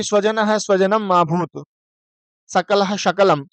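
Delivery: measured verse, telling hissed "स" from hushed "श"; sa-sha contrast. Shown as a demonstration. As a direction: keep "स" and "श" distinct in "सकलः शकलम". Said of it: "सकार और शकार में बहुत सारी समस्याएं".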